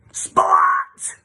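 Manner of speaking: high, loud angry cry of her name; indignant correction. Acted. Girl mispronounced; Splat corrects.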